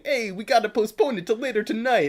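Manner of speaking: impression of his friend. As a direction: read the text in a mock version of his friend's voice. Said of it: "my impression of you".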